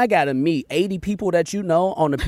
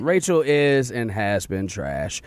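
slow, deliberate read; 7 semitones lower than usual. Retold or imitated. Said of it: "I just wrote".

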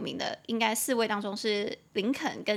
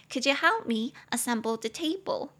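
coy request. Acted. Asking a crush for help with a table, coy. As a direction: ask sweetly in a raised, put-on voice. Acted request, then teaching repeat.

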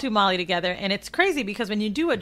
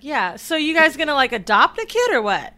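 casual mom; 6 semitones higher, 4 dB louder than usual. Retold or imitated. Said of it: "she's like".

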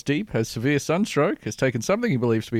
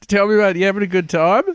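hyped-up radio presenter, louder and higher; matey radio host; 6 semitones higher, 6 dB louder than usual. Acted. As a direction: humour the caller with big radio-host matiness.

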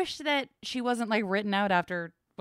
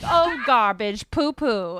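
put-on meek old movie woman; 3 semitones higher, 7 dB louder, slower than usual.

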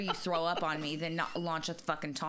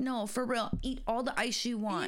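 reassuring; 5 semitones higher than usual. Retold or imitated. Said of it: "I was like".

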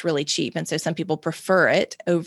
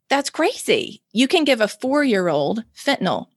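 high, shocked disbelief; incredulous; 5 semitones higher than usual. Retold or imitated. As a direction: say it like you can't believe it. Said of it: "And I'm thinking".

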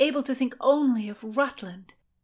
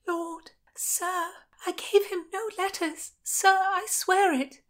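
put-on much higher, frightened girl; desperate plea; 10 semitones higher than usual. A narrator's reading. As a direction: beg to be believed. Constance pleads.

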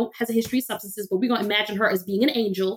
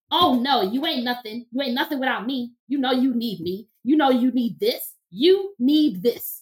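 A singer alter ego. Retold or imitated. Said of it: "that was my alter ego, a singer".

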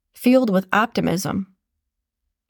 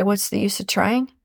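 defeated. Shown as a demonstration. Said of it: "You can even tell the tone".

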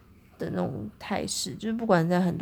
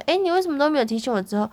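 mild retold question; 6 semitones higher, 4 dB louder, faster than usual. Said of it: "我只是讲说".

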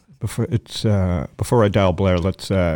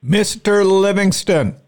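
drawn-out greeting; 11 semitones higher, 4 dB louder, slower than usual. Real, not acted. Greeting a guest on the phone.

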